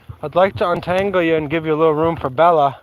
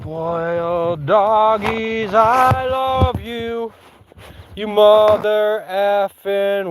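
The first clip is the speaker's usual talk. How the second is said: cooing; 3 semitones higher, much slower than usual. Real, not acted. Cooing to her dogs.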